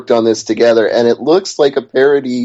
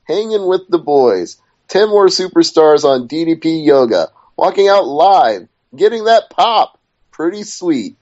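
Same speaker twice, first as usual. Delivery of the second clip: higher-pitched, lightly performed quote; quoting DDP; 5 semitones higher than usual. Acted. Host reading out DDP's post about Raw, lightly performed quote. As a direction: read it out in punchy, separate phrases. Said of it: "he had this to say about his appearance".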